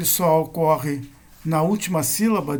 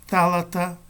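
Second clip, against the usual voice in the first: "Thalata" stressed on its first syllable, THA; antepenultimate stress. Shown as a demonstration. Teacher giving Greek accent examples, "Thalata" stressed on THA. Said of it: "antepenúltima sílaba".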